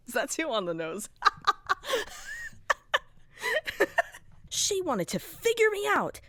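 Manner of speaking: very high, loud, cracking laughter through the words; laugh-cry as you unravel; manic laughing breakdown. Acted. Broken character laughing hysterically while blaming Pomni, unhinged.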